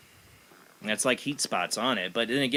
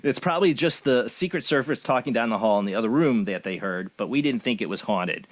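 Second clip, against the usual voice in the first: put-on Valley Girl bitchy voice. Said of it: "in my most Valley Girl bitchy voice".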